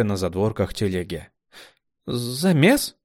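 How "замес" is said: higher rising question; recognition. A narrator's reading. Kamila spotting the smart one, rising question. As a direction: ask with sudden recognition. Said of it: "Лицо женщины прояснилось".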